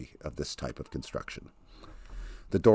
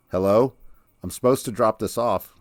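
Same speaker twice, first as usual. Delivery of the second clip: louder, slightly higher call into the back; 5 semitones higher, 6 dB louder than usual. A narrator's reading. Zella hears a noise out back, calling out louder. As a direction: call nervously toward the noise.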